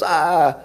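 half-voiced "Ah!" of a screaming caller; mild mock scream. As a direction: imitate an excited caller's scream without full volume. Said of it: "And she screams".

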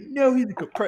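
high-pitched mock protest; a quick, high retold objection. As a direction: imitate the wife objecting, voice jumping high. Acting wife in tearful argument.

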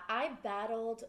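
ordinary talk, nothing marked

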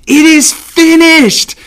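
high, slow and loud proclamation; lofty, drawn-out divine pronouncement; God's declaration. Acted. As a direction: announce it as God completing his plan. God himself declares completion.

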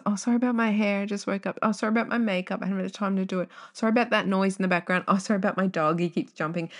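lightly mock the sorry-sorry girl; apologetic TikTok woman. Woman on TikTok apologizing for her hair, lightly mocked. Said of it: "They apologize in the TikToks".

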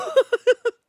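a sharp high real laugh; high laugh burst. Real, not acted. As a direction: crack up at the sweaty owner. Laughing at the sweaty owner.

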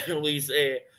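coughing mid-sentence; clearing a cough between words; coughing fit. Real, not acted. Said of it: "desculpa aqui a, a tosse".

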